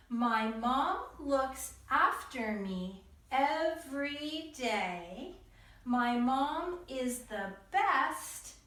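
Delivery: slow, lilting read-along pace; choral reading. Shown as a demonstration. Teacher leading kids in reading together, very slow. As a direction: read slowly so the kids can follow.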